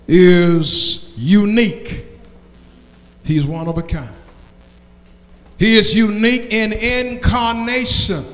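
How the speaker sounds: measured sermon proclamation with long pauses; preaching. Acted. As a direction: proclaim it to the congregation. Preacher proclaims after the song.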